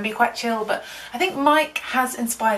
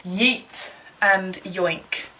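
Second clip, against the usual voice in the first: slow silly drawl; 5 semitones lower, much slower than usual. Pretend.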